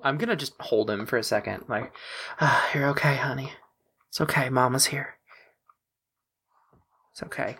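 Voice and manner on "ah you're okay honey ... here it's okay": put-on gentle, hushed comfort to a child; tired new mother. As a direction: soothe him like a worn-out mom. Mother holding injured son.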